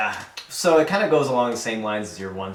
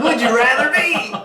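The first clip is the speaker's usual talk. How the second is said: laughing; 12 semitones higher, 5 dB louder than usual. Real, not acted. Laughing repeat of the question.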